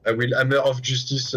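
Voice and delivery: put-on French accent. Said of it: "That sounded like he hammed it up".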